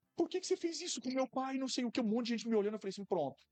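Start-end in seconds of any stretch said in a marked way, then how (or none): 0.2-1.6 high, tearful, sobbing crying shout. Retelling how a journalist's daughter stopped him in public, imitating her crying shout. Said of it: "ela começou a chorar, assim, gritado".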